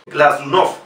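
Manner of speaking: Glazunov with full O in final "NOF"; stressed O. Shown as a demonstration. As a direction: Glazunov rising on its last syllable. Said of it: "vamos a pronunciar como O".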